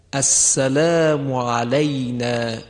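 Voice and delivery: slow السلام علینا with a pure fatha before the y; careful tajwid reading; correct pronunciation. Shown as a demonstration. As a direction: say علینا as alaynā, not alinā. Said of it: "صحیحش به این صورته".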